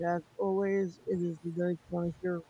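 boomy, hollow room sound; echoing tunnel. Real, not acted. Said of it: "Bro, you sound like you're in a tunnel".

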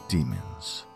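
deep, distorted demon growl; demonic voice. Acted. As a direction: let a demon speak the word.

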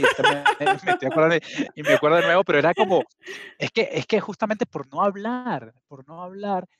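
on the verge of crying, a nervous laugh breaking through; choked up. Real, not acted. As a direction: voice catching, half laughing through real tears. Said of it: "me van a llorar".

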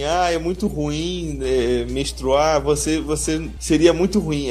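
slow, drawn-out mock whine; mock whining. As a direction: whine like you're suffering. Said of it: "a mulher sofrendo assim".

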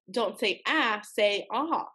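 "a" short as in cat, "ah" long and open; A versus AH. Retold or imitated. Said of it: "YouTube video I watched said".

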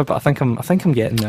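tripping over words, restarting; stuttering. Real, not acted. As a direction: stumble and repeat the start. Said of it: "I'm stuttering all over my words here".

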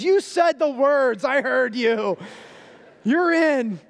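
put-on older brother settling it for good; smug big brother. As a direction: lay down the rule with certainty. Big brother declares it done.

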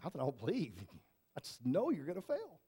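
softly imitated stern mentor. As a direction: quote him quietly, mock stern. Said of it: "with this really just stern".

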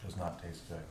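talking through a mouthful of burger; words round a bite of food; mouth full. Real, not acted. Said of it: "talk with your mouth full".

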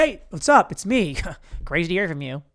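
lightly voiced eager caller; Kyle's radio greeting. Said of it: "If I do the voice in and out".

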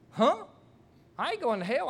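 high-pitched imitation of an affronted friend; indignant disbelief. Angered friend answering the preacher's threat of hell, indignant disbelief. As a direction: throw it back, high and incredulous.

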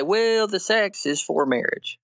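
high, mock-reasonable concession; mocking imitation. Mimics opponents' argument, incredulous.

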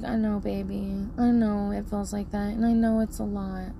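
softly soothing parent, retold; comforting. Parent rubbing son's back, soft comforting. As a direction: gently reassure an upset child, low and soft. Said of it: "giving such lovely, comforting".

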